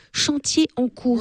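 annonce lente, un peu plus aiguë; détacher les mots comme sur une pancarte; lecture de panneau. Pretend. Lit un panneau imaginaire. (lire lentement un écriteau imaginaire)

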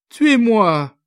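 high, loud begging cry; desperate plea. A narrator's reading. Young girl to the officer, begging, desperate. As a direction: beg him to kill her.

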